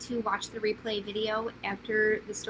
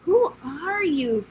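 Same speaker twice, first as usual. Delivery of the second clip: slow, louder call after her; 5 semitones higher, 8 dB louder, slower than usual. Acted. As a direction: call out to the fleeing girl. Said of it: "called the prince".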